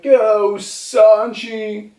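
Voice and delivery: high, loud cheer for Sanji; cheering shout. Retold or imitated. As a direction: cheer him on from the crowd. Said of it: "and they're like".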